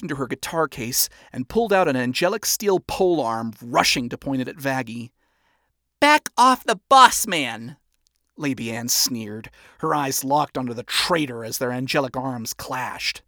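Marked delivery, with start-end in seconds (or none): 6.0-7.8 loud slow threat; shouting. Acted. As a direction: bark it out protectively.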